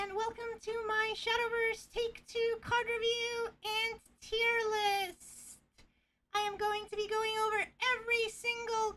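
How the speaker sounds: upbeat YouTuber intro voice; bright presenter energy for the camera. Acted. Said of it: "YouTuber voice on".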